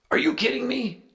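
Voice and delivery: disbelief. Retold or imitated. Friend realizing who called.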